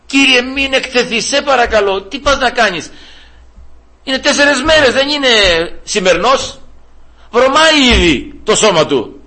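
Lazarus's sister pleading in high alarm; sister's anxious plea. Retold or imitated. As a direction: beg the Lord not to open the tomb. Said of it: "η αδελφή του Λάζαρο".

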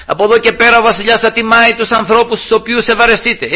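acted street proclamation, high and sustained; high mock announcement at moderate volume; herald's cry. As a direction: proclaim it like a crier, half-shouted. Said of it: "και φώναζε μπροστά".

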